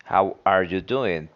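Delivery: full school form, How are you doing with every word said; How are you doing the careful textbook way, no reductions. Shown as a demonstration. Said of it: "to say this".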